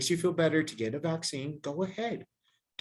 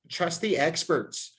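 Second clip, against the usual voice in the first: mild mock quote; 4 semitones higher, slower than usual. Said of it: "that's fake news. That's not real".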